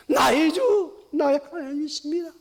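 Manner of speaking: shouted creed from the pulpit; called-out confession. Acted. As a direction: cry it out to the congregation. Confession proclaimed.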